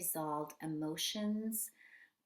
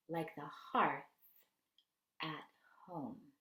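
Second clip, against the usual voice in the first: reading aloud; 4 dB louder than usual. Acted. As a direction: linger over each phrase of the passage. Resumes reading the book passage.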